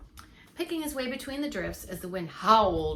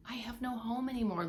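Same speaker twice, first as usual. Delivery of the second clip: sad; 2 semitones higher than usual. Acted. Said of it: "replied sadly".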